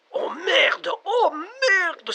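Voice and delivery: high, shouted cry of alarm; panicked cry. Acted. Panicked caller sees cabins everywhere.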